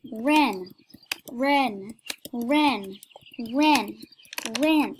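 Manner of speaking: insistent, evenly repeated call; yelling. Real, not acted. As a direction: keep calling the name to pester her. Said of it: "I'm just gonna yell at this girl".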